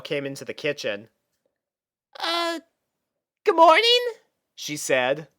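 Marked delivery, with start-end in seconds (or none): 2.2-4.0 high little filly, hesitant; small girlish voice; young filly voice. Acted. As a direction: play a shy young sister.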